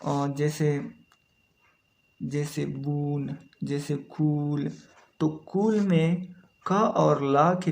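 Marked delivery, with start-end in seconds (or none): 2.7-3.4 "बून" with a drawn-out oo; long ऊ sound. Shown as a demonstration. Teacher giving an example word, long ऊ in "बून". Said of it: "ये long ऊ sound है". 4.0-4.7 "कूल" with a drawn-out oo; long ऊ sound. Shown as a demonstration. Teacher giving an example word, long ऊ in "कूल". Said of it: "ये long ऊ sound है".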